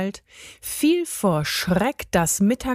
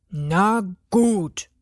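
mildly reluctant giving in; grudging agreement. A narrator's reading. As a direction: give in with slight reluctance. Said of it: "lenkte er schließlich ein". (zögerlich eingelenkt)

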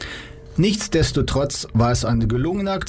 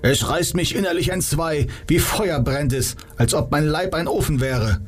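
mild pained lament; 5 semitones higher than usual. Acted. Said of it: "schlang die Arme um den Bauch".

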